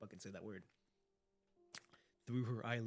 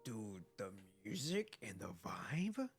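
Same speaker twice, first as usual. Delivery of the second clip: awed whisper; 7 semitones lower, slower than usual. Real, not acted. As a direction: hush it out in awe. Awed by the music.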